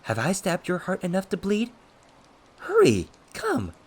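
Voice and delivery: high, goading, manic dare; cocky provocation. A narrator's reading. Villain daring his cousin to strike, cocky manic goading. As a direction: egg him on, jumping loud on each command.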